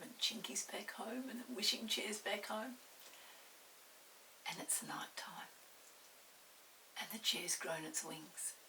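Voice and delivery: soft, half-whispered; hushed bedtime voice. Real, not acted. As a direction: ease the listener toward sleep.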